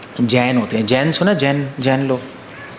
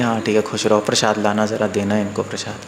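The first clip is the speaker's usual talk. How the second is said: low, subdued put-on blessing; feigned approval; 5 semitones lower, 4 dB quieter than usual. Guru pretending to bless newly married devotee, mock approval. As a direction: act agreeable in a lower, softer voice. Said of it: "हमें भी acting करनी पड़ती है".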